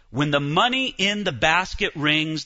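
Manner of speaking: ordinary talk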